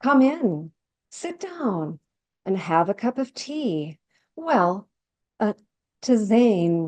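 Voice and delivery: lightly voiced sly hostess pouring tea; sweetly sinister hostess, a hint of menace; dramatic monologue. Hostess offering tea to a gossiping guest, lightly voiced sly charm. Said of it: "a dramatic lo-, uh, monologue".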